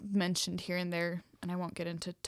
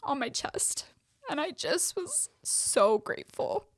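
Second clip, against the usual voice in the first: higher voice breaking with tears, slow; tearful; 10 semitones higher, 5 dB louder, slower than usual. Real, not acted. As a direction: choke up with real gratitude. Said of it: "No, no, no".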